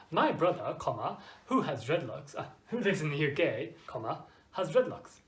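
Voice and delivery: reading out the word comma at each comma; saying the commas aloud. Shown as a demonstration. Teacher showing students the wrong way, saying comma aloud. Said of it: "you can't speak, comma".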